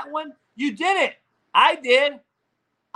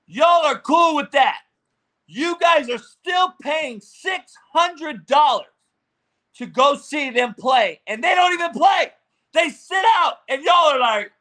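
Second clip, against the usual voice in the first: raised, higher ranting voice; heated shout; 4 semitones higher, 4 dB louder than usual. Real, not acted. Ranting at fans who pay six hundred dollars, shouting. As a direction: shout it out in disbelief, slowing at first.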